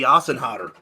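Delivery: "Asenhader" as AH-sen-hah-ter; German pronunciation. Shown as a demonstration. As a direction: say "Asenhader" as a German name, with broad ah. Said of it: "This one I can pronounce".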